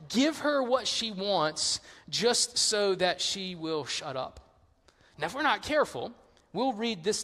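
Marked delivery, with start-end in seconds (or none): 0.1-4.4 weary giving in. Acted. Judge surrendering to the nagging widow, slow and weary. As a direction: spell it out wearily, falling away at the end.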